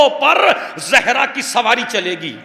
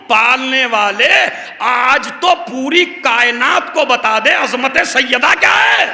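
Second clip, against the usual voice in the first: impassioned plea; 3 semitones higher than usual. Acted. Preacher calling on God before the assembly, impassioned. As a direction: cry it out to heaven.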